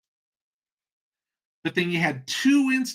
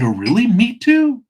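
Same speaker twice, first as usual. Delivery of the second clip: loud, jumping high on the last words; mock overjoyed agreement; 8 semitones higher, 8 dB louder than usual. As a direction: play ecstatic at the match. Joke's delighted common-ground reply, escalating.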